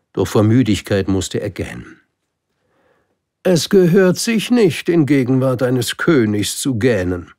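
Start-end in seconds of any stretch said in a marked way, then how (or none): 3.4-7.3 high, loud royal scolding; admonishing king. Acted. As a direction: reprimand him from the throne. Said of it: "ermahnte ihn der Monarch". (mahnender König, hoch und laut)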